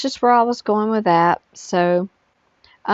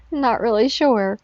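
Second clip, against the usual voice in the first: whispering; 3 semitones higher than usual. Real, not acted. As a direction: breathe it out as a whisper. Whispered repeat of earlier phrase.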